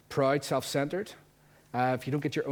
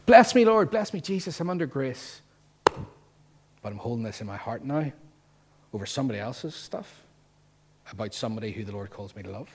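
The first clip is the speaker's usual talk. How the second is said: mock pious; 4 dB louder than usual. Voicing self-righteous believer.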